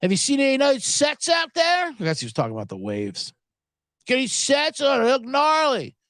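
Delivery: breezy beach bro asking about waves; surfer bro. Retold or imitated. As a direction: stranger on the beach, mildly imitated surfer. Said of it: "He's like".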